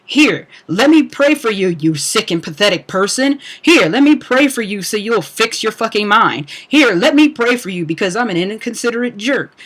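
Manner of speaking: sarcastic, condescending churchy voice; a mocking, syrupy "let me pray for you"; mock pious prayer offer. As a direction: parody a smug believer offering prayers. Mocking religious people offering prayer.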